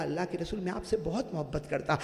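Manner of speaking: soft, hushed confession of love; understated weeping words; mild tearful plea. Acted. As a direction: say it quietly as if near tears. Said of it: "روتے روتے کہا".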